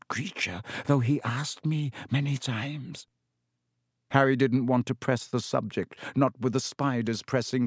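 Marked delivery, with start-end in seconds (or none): 0.1-3.1 lightly voiced spider creature; Aragog. A narrator's reading. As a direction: let the fierceness subside, still in creature voice. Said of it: "said Aragog fiercely".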